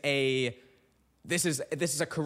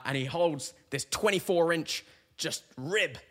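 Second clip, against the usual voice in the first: ordinary talk, nothing marked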